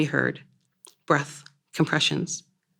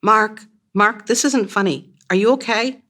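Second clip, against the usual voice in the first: louder and higher, panic building; panicked rising calls; 6 semitones higher, 5 dB louder than usual. Acted. Wife calling her collapsed fiancé, rising panic. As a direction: call his name, voice climbing in fear. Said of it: "My voice rising with each syllable".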